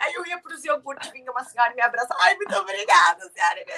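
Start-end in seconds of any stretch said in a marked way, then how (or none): 2.2-3.8 put-on crying voice, higher and louder. Retelling hugging older women at the supermarket: imitating herself crying. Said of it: "comecei a abraçar elas e a chorar".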